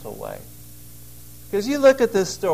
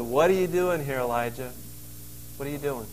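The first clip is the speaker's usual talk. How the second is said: gentle question; 3 semitones lower, 3 dB quieter than usual. Acted. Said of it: "but a gentle way".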